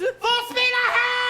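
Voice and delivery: high, loud order bellowed out; commanding shout. Acted. Khan ordering his crew to pursue, loud high shout. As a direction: bark the command to the whole bridge.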